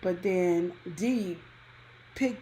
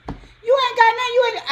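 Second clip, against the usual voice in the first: high, loud furious yell at the ex; angry yell; 9 dB louder than usual. Retold or imitated. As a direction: scream him down. Yelling at ex in quarrel.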